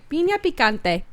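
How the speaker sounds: put-on playful Spanish accent on Piña picante. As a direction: roll it like a native Spanish speaker. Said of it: "say it in my Spanish accent".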